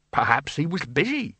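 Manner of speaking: a touch of hasty excuse; mildly hurried. A narrator's reading. Bursar excusing Death's absence, mildly hurried. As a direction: cut in with a quick suggestion. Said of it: "said the bursar hurriedly".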